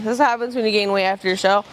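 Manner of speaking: rushed, fast matter-of-fact correction; fast, sheepish self-correction after the joke; quick correction, fast. Real, not acted. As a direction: hurry past "gain weight after your show". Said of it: "Just kidding".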